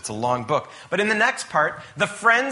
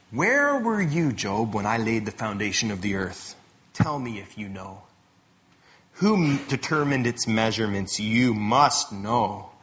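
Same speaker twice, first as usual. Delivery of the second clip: God challenging Job; 4 semitones lower than usual. Retold or imitated. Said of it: "stands before Job and says this".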